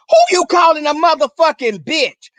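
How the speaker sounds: high, loud, half-crying outrage; furious yell. Retold or imitated. She bursts in on her boyfriend, screaming in outrage. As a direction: storm in screaming at the insult.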